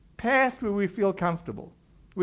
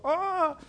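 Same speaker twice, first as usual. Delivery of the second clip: high, quick "aah" of pretend panic; mock panicked cry; 8 semitones higher than usual. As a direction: cry out as if caught. Mock panic at being caught.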